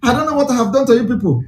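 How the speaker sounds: mildly plaintive imitation, pitch climbing; mock someone tearfully pleading to be left alone; half-hearted crying act, building in complaint. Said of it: "He's crying".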